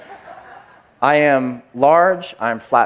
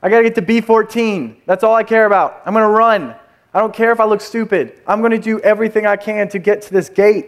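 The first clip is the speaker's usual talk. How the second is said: urgent inner voice; 5 semitones higher than usual. Retold or imitated. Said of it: "There was urgency".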